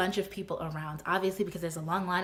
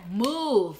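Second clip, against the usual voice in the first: louder one-word order; exasperated command; 3 semitones higher, 5 dB louder than usual. Retold or imitated. Woman blocked in her car, loud command. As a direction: order him away, loud and firm.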